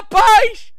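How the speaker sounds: high, very loud cry; Jesus shouting. Acted. Jesus coming from the other side, loud high shout. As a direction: shout the word to stop everyone. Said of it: "Jesus vem do outro lado e grita".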